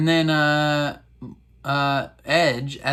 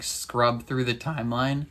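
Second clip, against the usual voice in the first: voice crack. Real, not acted. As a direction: voice cracking mid-phrase. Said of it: "Sorry, that voice crack right there".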